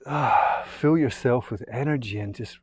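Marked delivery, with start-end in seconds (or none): 0.1-0.6 big, audible out-breath "ah"; releasing sigh. Shown as a demonstration. Leading a deep breath.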